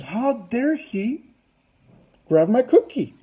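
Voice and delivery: slow, drawn-out indignant outrage; acted indignation. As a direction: play her offended, stretching the words. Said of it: "in anger and she says".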